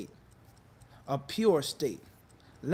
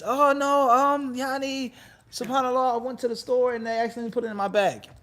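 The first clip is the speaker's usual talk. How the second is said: higher, louder, hurried mock panic; flustered excuse; 5 semitones higher, 3 dB louder than usual. Caught wife making a flustered excuse to her husband. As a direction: stammer out a guilty excuse.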